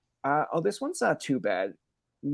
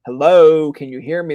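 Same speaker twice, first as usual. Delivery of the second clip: a hammed-up shout of hello; imitating calling upstairs; mock call out; 2 semitones higher, 11 dB louder than usual. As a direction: call out to the parents, half-joking. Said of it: "I'm just like".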